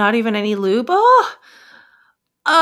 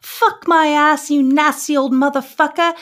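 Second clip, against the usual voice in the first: excited moaning; 7 semitones higher, slower than usual. Acted. Emma screaming out to David.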